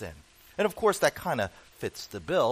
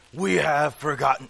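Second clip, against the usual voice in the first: failed Gollum; 6 dB louder than usual. Retold or imitated. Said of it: "that's not how he sounds".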